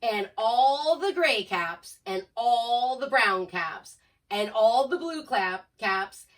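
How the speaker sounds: slow, drawn-out storybook narration; reading to children. A narrator's reading. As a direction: build the list, stretching every ALL. Reads story climax to children.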